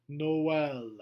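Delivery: "Noël" in two syllables, "no-el"; French Noël, E sounded. Shown as a demonstration. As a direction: sound the E apart from the O. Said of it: "It's so that E has a sound".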